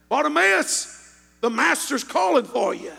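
lightly voiced bystander's call. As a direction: call over to him, stretching the name. Bystander calls out to the blind man.

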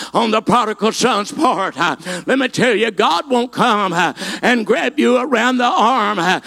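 ordinary delivery

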